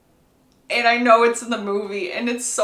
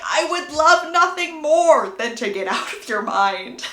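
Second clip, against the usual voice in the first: higher, emphatic exasperation; exasperated retort; 4 semitones higher, 4 dB louder than usual. Retold or imitated. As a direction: push the retort up high and emphatic. Acted quarrel, Edward retorts.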